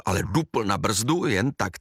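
plain reading voice

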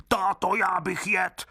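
begging greedily to be fed; hungry brute crying out. Acted. Grown wooden boy demands food from his father, high and whining. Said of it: "otvírá hubu a křičí".

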